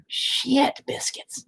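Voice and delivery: a soft breathy curse under the breath; whispered curse. Real, not acted. Muttering over bad painting legs, whispered curse.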